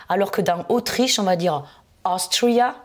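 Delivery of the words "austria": Austria, AUS high and punched; stress on first syllable. Shown as a demonstration. Teacher contrasting it with Australia, stress on AUS in Austria. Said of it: "première syllabe".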